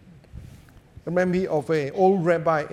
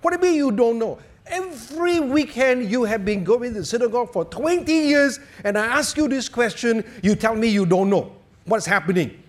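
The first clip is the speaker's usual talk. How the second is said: put-on raised, heated scolding of the old man; angry policeman; 4 semitones higher, faster than usual. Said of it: "the policeman was very angry".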